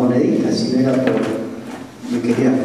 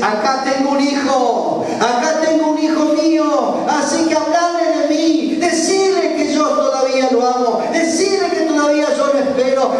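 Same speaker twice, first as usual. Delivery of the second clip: higher, fervent plea of a loving father; God's pleading voice; 11 semitones higher than usual. Acted. Preacher voicing God asking him to tell the son he is loved, fervent plea. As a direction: call out as God longing for his son.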